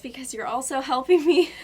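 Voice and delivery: teary laugh, voice breaking into giggles; laughing through tears. Real, not acted. Thanking her viewers, laughing through happy tears. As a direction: laugh it out while choked up.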